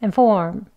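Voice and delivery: "And form" with first vowel reduced; short schwa in "And" before "form"; light, unstressed "And", then "form"; weak form. Shown as a demonstration. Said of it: "각각 이렇게 발음합니다".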